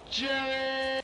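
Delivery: real grief-struck shout; anguished scream. Real, not acted. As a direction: scream his name as he dies. Teammate blown up beside him.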